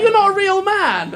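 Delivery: high, loud, drawn-out jeer; hammed-up taunt, slow and high; mock insulting fan. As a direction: imitate a heckler hurling an insult. Fan's insult acted out.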